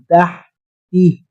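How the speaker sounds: تحتی with a thin, light ح, slow; thin light sound. Shown as a demonstration. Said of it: "بالکل باریک آواز میں".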